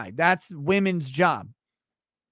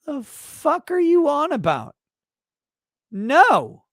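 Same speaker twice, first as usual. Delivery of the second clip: much higher, louder incredulous yell; outraged husband; 11 semitones higher, 5 dB louder than usual. Retold or imitated. Husband rejecting his wife's OnlyFans idea, higher incredulous yell. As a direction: scoff at her like a disbelieving husband. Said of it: "the guy looks at her and says".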